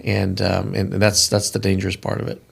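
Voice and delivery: out of breath, winded; words between short breaths. Real, not acted. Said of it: "I'm a little bit out of breath".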